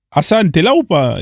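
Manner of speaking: calling for an absent person's attention. Real, not acted. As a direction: call out to someone who isn't answering. Calls out to absent streamer.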